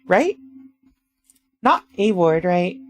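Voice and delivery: ordinary talk, nothing marked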